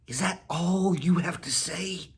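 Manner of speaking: a cat teasing the dog. Acted. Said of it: "Whiskers asked".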